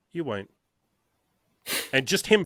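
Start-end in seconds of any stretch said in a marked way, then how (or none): 0.1-0.5 softer, matter-of-fact reassurance; really calm. Retold or imitated. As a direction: imitate a mentor's quiet certainty. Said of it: "he just really calmly was like".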